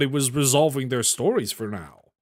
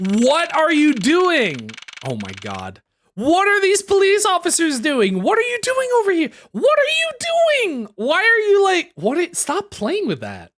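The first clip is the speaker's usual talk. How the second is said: shocked; 11 semitones higher than usual. Real, not acted. Shocked at police officers.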